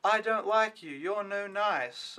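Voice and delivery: lightly voiced sulky kid; imitating grumpy Ricky. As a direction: whine it like a sulky boy. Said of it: "he's like".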